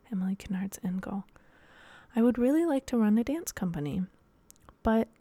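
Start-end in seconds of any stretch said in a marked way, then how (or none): 0.1-1.2 hushed dramatic whisper, much softer; secretive whisper. Acted. Dramatic reveal of end goal.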